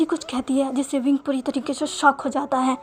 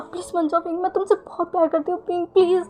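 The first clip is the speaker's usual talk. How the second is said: pleading; 5 semitones higher than usual. Acted. Pleading as he leaves.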